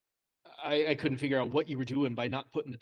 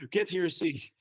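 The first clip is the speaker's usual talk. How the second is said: mimed panting, words squeezed out between gasps; out of breath; 4 semitones higher than usual. Retold or imitated. Winded teacher greeting the class after climbing stairs, acted out of breath. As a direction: act winded, puffing through the instructions. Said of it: "I'm so out of breath".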